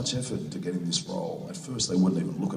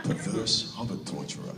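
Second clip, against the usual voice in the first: "Perverse hobbit torturer" repeated in his own voice through laughter; laughing repeat; 2 semitones higher than usual. Real, not acted. He repeats the manager's advice to the fans, laughing. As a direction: drop the German accent and savour the words, amused. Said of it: "That's a great German take on it".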